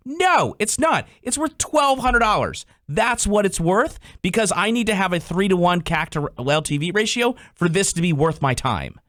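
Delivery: emphatic mock rebuttal. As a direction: spell out the real price like it's obvious. Imitated owner pushing back on sponsors.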